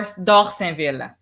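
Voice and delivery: Dorsainville said slowly the French way, dor-sen-VEEL with a throaty r; French pronunciation. Shown as a demonstration. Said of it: "you gotta say with an accent".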